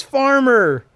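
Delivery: high-pitched mock yell, drawn out; retold yell. Host retells Solana yelling for Farmer, mock yell. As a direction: call it out high, imitating her. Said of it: "She yells".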